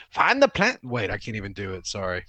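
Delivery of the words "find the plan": Darth Vader impression. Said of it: "my best Darth Vader impression".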